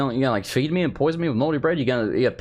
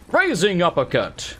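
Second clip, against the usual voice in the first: put-on slow, drawn-out move call in a light African accent; Doomfist impression; slower than usual. Game hero calling out his move, mild mock shout. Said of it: "he shouts what he's doing".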